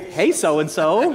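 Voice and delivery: slow, laughing "Hey, so-and-so"; laughing mock greeting. Greeting friend Jim, a slow laughing mock hello. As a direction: draw it out through a laugh. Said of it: "and go".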